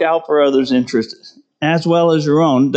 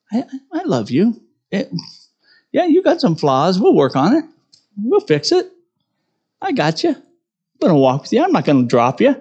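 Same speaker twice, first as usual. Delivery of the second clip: gently voiced Christ, higher, reassuring a flawed friend; tender reassurance; 4 semitones higher than usual.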